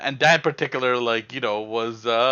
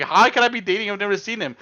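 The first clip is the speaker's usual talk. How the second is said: higher, baffled objection; incredulous protest; 5 semitones higher than usual. Retold or imitated. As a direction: protest the absurd rumour in disbelief. Protesting the rumour in retold disbelief.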